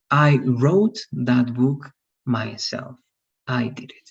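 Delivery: "wrote" stressed, slow delivery; proud emphasis on doing it. Shown as a demonstration. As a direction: say it slowly, proud you did it yourself.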